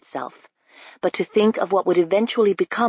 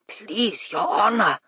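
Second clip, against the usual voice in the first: higher, startled exclamation; exclaiming; 4 semitones higher, slower than usual. A narrator's reading. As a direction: protest in sudden alarm. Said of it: "Doctor X exclaimed".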